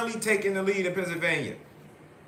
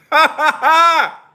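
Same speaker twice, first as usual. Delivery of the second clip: loud high burst of laughter; laughing out in delight; excited laugh; 11 semitones higher, 15 dB louder than usual. Real, not acted. Streamer to viewers, laughing loudly with delight. Reacting to Trump's lead.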